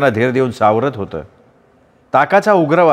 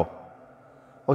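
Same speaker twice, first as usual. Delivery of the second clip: breathy whispered "अहो"; whispered hush; 16 dB quieter, much slower than usual. Acted. Wife whispers to her angry husband, hushed. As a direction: whisper it so the kitchen can't hear.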